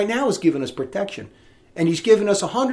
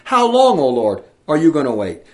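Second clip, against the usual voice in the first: righteous anger; 3 semitones lower, 4 dB louder than usual. Retold or imitated. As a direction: cry out to God in anger. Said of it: "in righteous anger".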